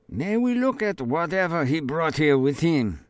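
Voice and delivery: lightly voiced probing official; polite officer. Policeman asks to search.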